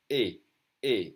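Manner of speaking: "E" as a clean ay without glide; French closed E. Shown as a demonstration. Teacher showing accent aigu sound, a closed "E". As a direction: say "E" twice, separately, as French é. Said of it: "they're all E sound".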